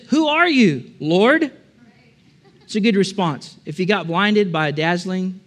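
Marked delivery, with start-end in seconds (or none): 0.1-1.5 higher, startled cry to an unseen voice; startled question. Acted. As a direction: ask it blinded and shaken. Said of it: "And Saul says".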